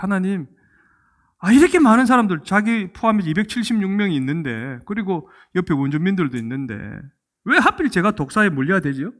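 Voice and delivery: whiny protest to God, half-acted; complaining to God. Preacher voicing Paul complaining to God, aggrieved. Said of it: "이런 불평이 나오지 않을까요".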